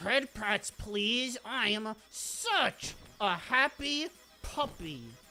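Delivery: slow, forceful, aggressive begging, pushed hard. Joking about how a boss fight feels: mock aggressive begging. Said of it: "aggressively beg for head patch".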